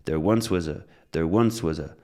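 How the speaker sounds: "was" squeezed to a short weak "wuz" after a stressed "once"; reduced "was". Shown as a demonstration. Teacher drills contracting was, "was" reduced to weak "wuz". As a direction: hit "once", rush lightly through "was a". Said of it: "Get used to contracting was".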